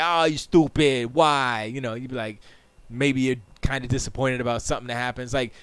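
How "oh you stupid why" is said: slow, exasperated groan of a line; hammed-up annoyed sigh-talk; mock frustration. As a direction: act fed up with yourself, drawn out. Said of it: "I might be like".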